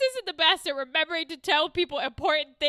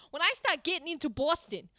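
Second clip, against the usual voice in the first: Boston accent. Real, not acted. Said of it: "You don't want this accent".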